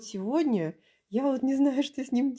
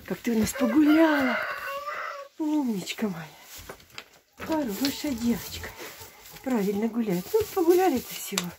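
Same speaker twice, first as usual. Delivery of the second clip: squeaky praising a dog. Real, not acted. Praising the goat.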